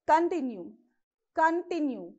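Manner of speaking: Continue with the stress on the middle syllable; conTINue, lean on the T syllable in Continue; stress on TIN. Shown as a demonstration. Teacher showing where to stress Continue, stressed middle syllable. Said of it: "you have to stress on T".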